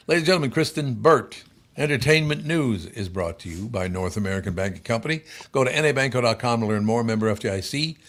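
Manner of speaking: radio ad announcer; announcer read. Acted. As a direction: introduce and read the sponsor spot. Reads sponsor announcement.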